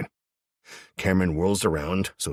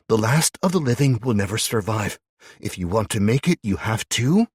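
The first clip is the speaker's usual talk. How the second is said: cold recited saying; 7 semitones higher, 6 dB louder than usual. Acted. Abby reciting a trigger phrase.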